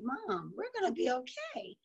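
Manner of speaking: put-on softly quoting her kids' comfort; mother quoting her children's reassurance, soft and tender; kids reassuring mom. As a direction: hush it like a child comforting a parent. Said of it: "They said to me".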